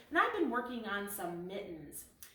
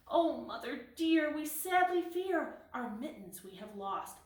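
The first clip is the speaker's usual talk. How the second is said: kittens crying; 5 semitones higher than usual. Acted. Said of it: "they began to cry".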